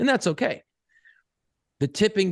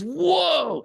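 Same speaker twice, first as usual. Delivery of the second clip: high, drawn-out "whoa"; imitated shock; 10 semitones higher than usual. Dad imitating his son watching the film, shocked. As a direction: act out a kid's stunned reaction. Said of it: "I think he was shocked".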